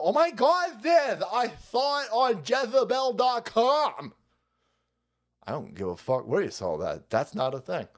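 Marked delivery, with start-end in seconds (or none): 0.0-4.1 mocking voice. Mocking high voice.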